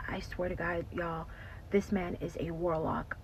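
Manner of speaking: whispered, secretive admission; hushed confession. Retold or imitated. Ashley confiding to her friends in a hushed whisper. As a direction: lean in and breathe it like a secret.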